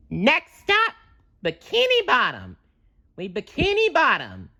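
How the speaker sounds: very high, announcing cartoon sponge; excited exclaim. A narrator's reading. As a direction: call out the next stop, thrilled. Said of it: "exclaimed SpongeBob".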